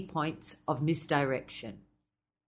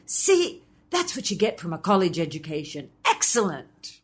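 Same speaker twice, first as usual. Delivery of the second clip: snappy comeback. Acted. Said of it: "a snappy comeback".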